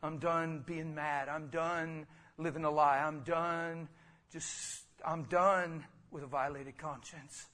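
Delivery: soft, surrendering prayer; hushed confession to the Lord; quiet prayer. Shown as a demonstration. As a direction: pray it softly, alone before God. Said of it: "Just let it be".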